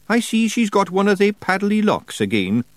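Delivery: high, broad Scottish wee man; Feegle voice. A narrator's reading. Daft Woolly speaks.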